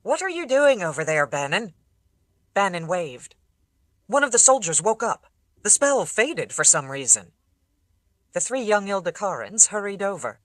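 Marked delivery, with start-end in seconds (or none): 0.0-1.7 calling out, higher and louder; shouting across. Acted. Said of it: "Amos shouted". 4.1-7.3 calling back. Acted. Bannon calls back across distance.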